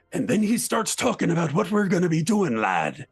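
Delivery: growly, swooping character voice. Shown as a demonstration. Player shows how physicality shapes a voice, growly character. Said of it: "got that growl going in his voice".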